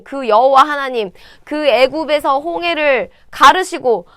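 rising outrage at the blasphemy; indignant anger. Acted. Young David outraged at Goliath's insults, angry. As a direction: let the anger build line by line. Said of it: "화가 난 거예요".

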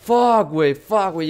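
shouting curses, high and loud; loud cursing. Real, not acted. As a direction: yell the swear words in frustration. Caught by the enemy, swearing.

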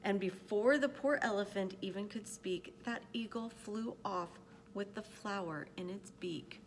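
measured, expressive picture-book reading; storyteller pacing out each phrase; story narration. A narrator's reading. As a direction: read it aloud to children, with care. Reads a picture book aloud.

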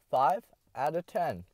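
slow, drawn-out score; slow verdict. Shown as a demonstration. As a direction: drag the score out slowly.

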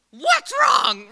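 high, loud panicked cry; panicked mom. Retold or imitated. Mom answering her daughter's call on the road, panicked shout. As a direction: shriek it like a frightened mother hearing bad news. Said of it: "goes into a panic".

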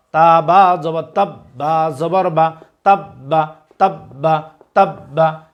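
teacher's recitation, letter by letter; slow spelling drill. Shown as a demonstration. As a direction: spell each letter slowly, then say the word thrice. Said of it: "আপনারা আমাদের সাথে repeat করার চেষ্টা করুন". (ধীরে বানান করে তিনবার উচ্চারণ)

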